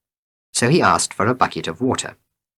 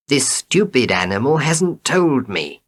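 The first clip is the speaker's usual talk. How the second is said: shouted back; 6 semitones higher than usual. A narrator's reading. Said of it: "Nasruddin shouted back".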